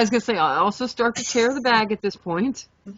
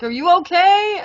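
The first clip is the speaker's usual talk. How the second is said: higher, lightly voiced worried roommate; concerned roommate; 11 semitones higher, 4 dB louder than usual. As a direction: ask gently if she's alright.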